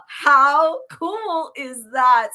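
slow, drawn-out giddy delight; giddy anticipation. Real, not acted. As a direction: savor it with bubbly glee. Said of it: "I'm so giddy right now".

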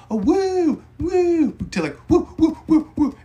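hammed-up wavering fan hoots; off-pitch woos. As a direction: mimic the fan's shifting, off-pitch woo. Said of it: "He'll switch it from".

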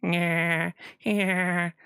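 high drawn-out Peter Griffin yeah; Peter Griffin impression. Shown as a demonstration. Streamer repeats his Peter Griffin voice, high and drawn out. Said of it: "if I do that voice".

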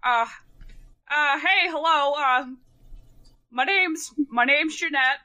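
lightly put-on character voice; hesitant introduction in a lightly assumed voice; a hint of character voice, halting start. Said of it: "keeping up that voice".

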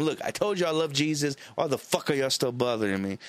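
fed-up retort, lightly acted; mildly upset. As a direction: replay mild irritation at pushy visitors. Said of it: "I was getting a little bit upset".

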